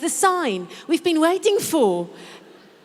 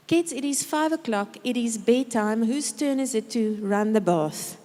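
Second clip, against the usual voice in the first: clear and calm command. Shown as a demonstration. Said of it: "giving a clear and calm command".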